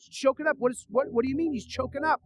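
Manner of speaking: high, startled questioning; stammered, incredulous question; retold bewildered reaction; alarmed disbelief. Acts alarmed reply to cellmate.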